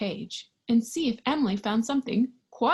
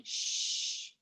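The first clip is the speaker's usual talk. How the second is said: shush; 7 dB quieter than usual. Acted.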